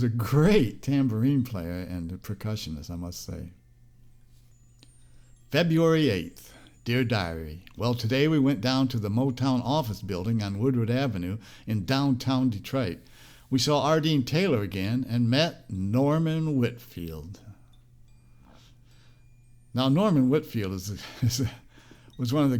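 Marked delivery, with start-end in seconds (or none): 5.5-17.4 embarrassed diary reading. Retold or imitated. Reads old diary entry aloud.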